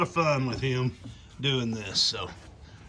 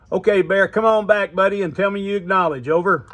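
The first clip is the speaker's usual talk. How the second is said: calling out; 7 dB louder than usual. Real, not acted. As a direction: call him back, loud and clear. Calls to distant grandson via radio.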